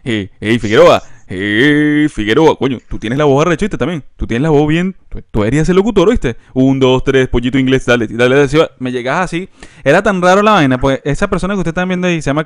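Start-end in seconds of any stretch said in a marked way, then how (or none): 0.0-8.7 mock admiring buddy routine; imitating classmate's hype. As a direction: hype up his voice like a pushy pal. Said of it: "me llegabas en séptimo grado y que".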